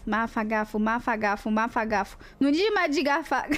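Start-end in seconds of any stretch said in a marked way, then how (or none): 0.1-2.2 drawn-out, low, deliberate; very slow. Shown as a demonstration. Streamer drilling the hard word, very slow. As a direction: stretch Mafagafos out syllable by syllable. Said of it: "Fala devagar".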